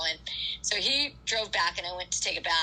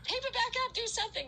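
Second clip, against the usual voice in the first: mock-screamed plea to the medic, pitched way up; retold pained cry; 4 dB quieter than usual. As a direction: beg through the pain of a torn blister. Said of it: "And I'm, like, screaming".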